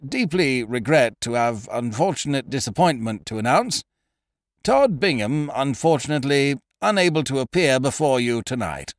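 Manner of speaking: a hint of a pompous, uneasy compère; nervous announcer. Announcer tells the music-hall crowd the star won't appear, uneasily. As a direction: stiffly announce the bad news. Stout announcer breaks bad news.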